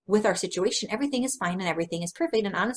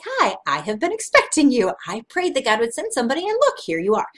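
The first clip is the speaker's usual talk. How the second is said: excited greeting; 3 semitones higher, 6 dB louder than usual. Retold or imitated. Greeting the answered prayer.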